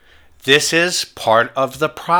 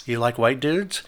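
lower, softer mocking jab; mocking taunt; 4 semitones lower, 6 dB quieter than usual. To a protester in his face, low mocking taunt. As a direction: needle him with a low, soft sneer. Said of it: "And I just started taunting him".

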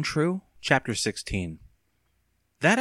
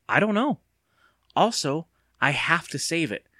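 higher, with mild excitement; excited; 7 semitones higher than usual. A narrator's reading. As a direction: press on with a new thought. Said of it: "Evan continued excitedly".

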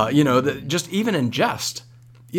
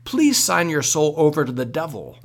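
slow, lightly spooky witch's welcome; 3 semitones higher, slower than usual. Retold or imitated. Hayride greeter welcoming the youth group, mildly spooky witch voice. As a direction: imitate a scary hayride greeter, drawn out. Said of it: "in a spooky, scary voice".

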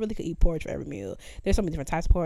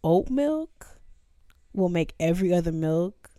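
dramatic pronouncement. Acted. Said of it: "lean in".

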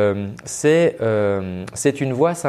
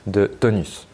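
toneless drone lacking energy; dull, low-energy demo; monotone; 3 semitones lower than usual. Shown as a demonstration. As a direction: let the voice go limp and even. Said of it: "très monotone comme ça".

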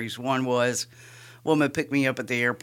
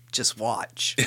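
laughing defiance; 6 semitones higher, 12 dB louder than usual. Retold or imitated. Retold defiant answer to Baxley.

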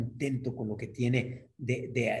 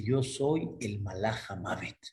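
Angel of Death. Acted. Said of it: "En eso sale una voz".

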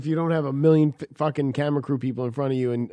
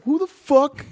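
annoyed shout; 4 dB louder, slower than usual. Retold or imitated. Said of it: "then just be like".

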